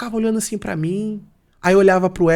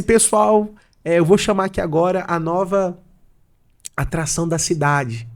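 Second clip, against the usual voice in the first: imitating an MC's drawn-out introduction; show announcer; slower than usual. Singer introducing a newcomer to the audience, announcer voice. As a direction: stretch out the name, then rev up the crowd. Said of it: "ele foi lá e me apresentou".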